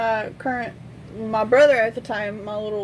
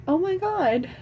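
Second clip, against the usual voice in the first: higher-pitched mock astonishment; imitated shock; 7 semitones higher than usual. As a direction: mimic a jaw-dropped mother. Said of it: "his mother's mouth drops".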